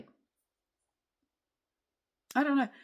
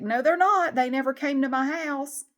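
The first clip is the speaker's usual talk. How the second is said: indignant; 6 semitones higher, 6 dB louder than usual. Retold or imitated.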